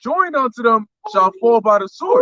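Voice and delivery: slow, emphatic scripture recitation; scripture reading. Real, not acted. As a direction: read the verse solemnly, stretching the words. Reads scripture aloud.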